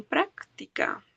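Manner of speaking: "práctica" with the beat on "prác"; stress on first syllable. Shown as a demonstration. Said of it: "Lleva el golpe de voz en".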